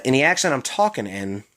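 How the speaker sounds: "in the accent" run together as "inny accent"; Maryland slur. Shown as a demonstration. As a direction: drop the TH in "in the". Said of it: "Everyone's got a phrase or word that they slur".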